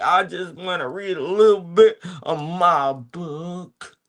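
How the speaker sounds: teasing high singsong; playful put-on voice.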